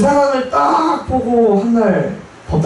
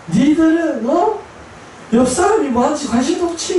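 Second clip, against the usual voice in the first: high mock rebuke, half sobbing; angry crying rebuke; 9 semitones higher than usual. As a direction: scold everyone through tears. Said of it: "화를 내시면서 펑펑 우시는데". (울면서 화내듯이 높은 목소리로)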